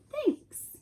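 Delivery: high, put-on bear voice, falling; a high, drawn-out thanks from the bear; Bear's thanks.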